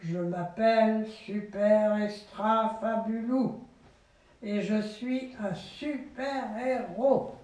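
slow, solemn superhero introduction; mock-solemn superhero; grave hero voice. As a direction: announce yourself with grandeur. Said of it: "d'une voix grave".

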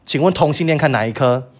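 re-enacted loud, defiant report to a sergeant; angry loud report. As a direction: call it out, rising high at the end. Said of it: "我就超级大声跟他说". (生气地大声报告)

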